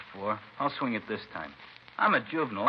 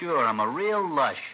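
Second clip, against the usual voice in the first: slow, drawn-out mock agreement; sarcastic; 3 semitones higher, slower than usual. Suspect mocking the detective's drinking question, slow sarcasm. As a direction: sneer it back at him slowly. Teen mocks cop's question.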